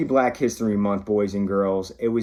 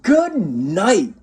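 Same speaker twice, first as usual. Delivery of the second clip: louder, higher call down the hall; 8 semitones higher, 5 dB louder than usual. Acted. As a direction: call goodnight to the kids' room. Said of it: "I call".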